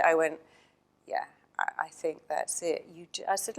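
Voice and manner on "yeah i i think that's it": soft confirmation. Retold or imitated. Soft confirmation to crying client.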